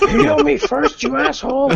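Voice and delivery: loud, high yell through laughter; mock angry shout. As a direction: demand it at full volume, half laughing. Player shouts for healing, laughing.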